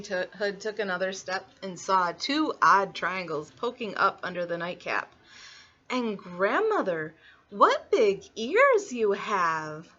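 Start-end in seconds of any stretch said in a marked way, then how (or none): 5.9-9.9 very slow, swooping exclamation; wondering little girl. Acted. Little Red staring at odd eyes, slow drawn-out wonder. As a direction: stretch the words in amazement.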